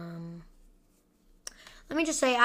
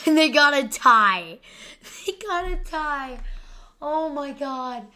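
laughing; 3 semitones higher, 4 dB louder than usual. Real, not acted. Laughing at the Lions' tie.

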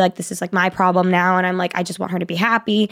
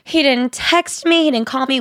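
imitating crying friend; 6 semitones higher than usual. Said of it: "calling me crying".

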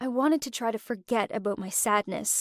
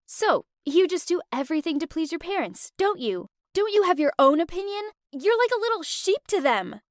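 indignant; 5 semitones higher than usual. Retold or imitated. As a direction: throw his obedience back at him. Confronting boyfriend in argument.

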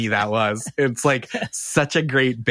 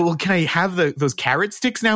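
small pleading ask, much higher; hopeful plea; 6 semitones higher than usual. Retold or imitated. Guest begging the host for snacks, high and pleading. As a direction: ask sweetly for the carrot sticks.

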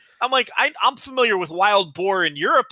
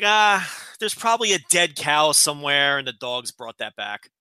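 offhand, settling lower at the end; casual; 3 semitones lower than usual. Retold or imitated. Neighbor explains a found horn away, casual. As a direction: imitate a breezy, unbothered shrug. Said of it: "All casual".

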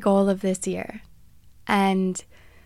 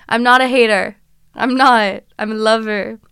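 emphatic protest; 7 dB louder than usual. Real, not acted. Protesting she's not a hater.

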